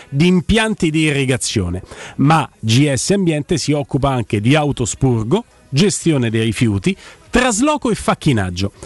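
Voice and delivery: radio ad read. Acted.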